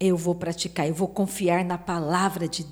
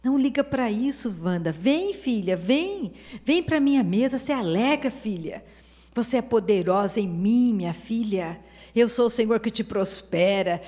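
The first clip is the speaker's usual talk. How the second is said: voicing God as father; 2 semitones higher than usual. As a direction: call her in gently, then lift it. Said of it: "Deus fala". (Deus como pai chamando a filha, voz um pouco mais aguda)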